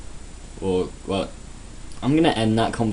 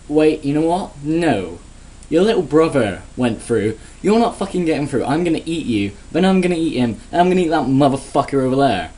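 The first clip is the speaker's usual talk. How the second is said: angry troll; 3 semitones higher than usual. Retold or imitated. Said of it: "I'd be like".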